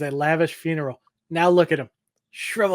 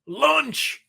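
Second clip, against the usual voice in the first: high sing-song call to come eat; calling out lunch; 8 semitones higher than usual. Retold or imitated. Grandpa calls up the stairs to the bedridden lady, sing-song call.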